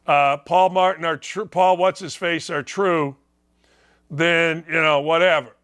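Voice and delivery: lightly voiced dismissive athlete; Micah Parsons voice. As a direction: read it like a grudging apology. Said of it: "I was doing it in his".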